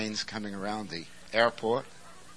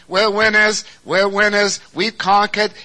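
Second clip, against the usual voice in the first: shouted triumphant cheer, much higher and louder; victors' cheer; 11 semitones higher, 16 dB louder than usual. Acted. Preacher voicing victors parading down the street, shouting. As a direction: call it out like a winning army on parade.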